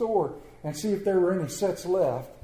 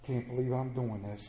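softer, lower grumble under breath; muttered; 6 semitones lower, 8 dB quieter than usual. Acted. Father grumbling as he puts on coat, muttered low. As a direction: mutter it reluctantly. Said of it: "he muttered".

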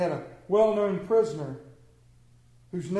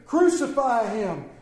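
a firm, raised call; crowd's demand; 4 semitones higher, 5 dB louder than usual. Acted. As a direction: answer the governor as one crowd. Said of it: "they all answered".

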